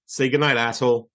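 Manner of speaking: low, lightly acted villain sign-off; quoted film catchphrase. Brothers' bedtime goodnight to each other, low movie-villain parody. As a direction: deliver it as a low mock-menacing movie quote. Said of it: "used to do the other one".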